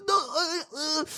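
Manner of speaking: very high, soft mock whimper; high hushed pretend moan; mock pained whimper. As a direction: whimper like a beaten man. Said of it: "he was like".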